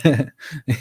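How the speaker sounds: high imitated witch cackle; a quick witchy laugh, mimicked; mock witch laugh. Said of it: "laughing like a witch".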